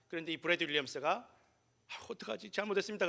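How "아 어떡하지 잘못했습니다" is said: soft, higher, meek fretting; imitated timid apology. Pupil before the principal, imitated timid apology. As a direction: apologise meekly, as if in trouble. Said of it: "그런 게 아니라".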